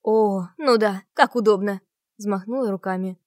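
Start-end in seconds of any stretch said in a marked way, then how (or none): 0.0-1.8 sarcastic retort. A narrator's reading.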